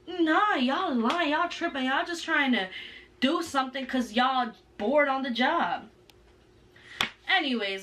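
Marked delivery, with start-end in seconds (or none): 0.1-5.9 defiant sass. Retold or imitated. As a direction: brush the cops off, drawing it out. Retold defiance at the cops.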